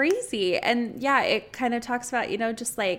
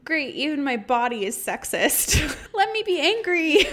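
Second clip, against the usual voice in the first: laughing mock protest; 5 semitones higher, 4 dB louder than usual. Mock complaint about own body.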